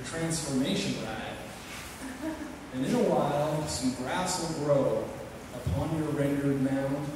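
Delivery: poem recited in a cowboy voice; cowboy drawl. Acted. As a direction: recite it like a cowpoke at the campfire.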